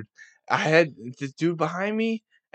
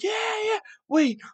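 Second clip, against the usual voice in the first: high cheering yeah then a confused wait what; crowd going from cheer to confusion. Retold or imitated. Crowd at the game reacting to the field goal, high cheer turning to confusion. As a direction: mimic a crowd cheering then realizing something's off. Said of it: "everybody's like".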